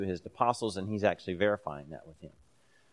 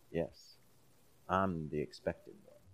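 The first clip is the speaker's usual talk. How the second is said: quiet, calm answer; 4 semitones lower, 10 dB quieter than usual. Acted. Preacher voicing Jesus's implied answer.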